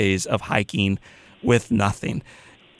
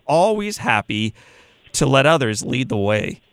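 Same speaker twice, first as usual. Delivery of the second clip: put-on reading aloud in a Midwestern accent; 3 semitones higher than usual. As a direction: read the quote with a Midwestern accent. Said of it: "my Midwestern accent".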